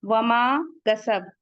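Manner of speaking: वमा कसब drawn out slowly; slow recitation. Shown as a demonstration. Teacher models the verse slowly for students. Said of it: "टू count पढ़ेंगे इसे".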